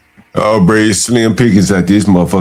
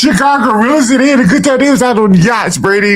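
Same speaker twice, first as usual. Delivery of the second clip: mocking voice. Mocking people on yachts.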